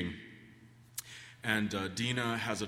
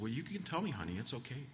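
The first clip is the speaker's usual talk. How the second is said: reassuring mother; 4 semitones higher, 4 dB quieter than usual. Retold or imitated. Mother coaxing a quiet child.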